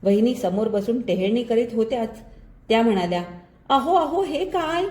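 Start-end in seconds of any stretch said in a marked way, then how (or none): 3.7-4.8 higher-pitched voice for the wife; protesting wife. A narrator's reading. Wife catches husband buttering toast, protesting in higher pitch. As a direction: object in a high, lightly acted wife's voice.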